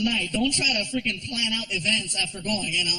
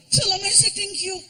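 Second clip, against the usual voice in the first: put-on much higher, sleepy child's voice; little kid voice; 10 semitones higher than usual. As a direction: play a small boy just woken up.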